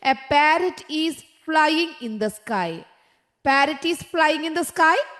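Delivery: each word drawn out very slowly; slow dictation. Shown as a demonstration. Teacher reading the quiz sentence to her class, very slow. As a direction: spell it out slowly for young pupils.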